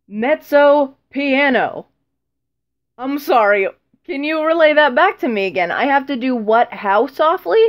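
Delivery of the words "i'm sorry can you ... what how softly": incredulous. Retold or imitated. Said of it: "mock incredulous at the teacher".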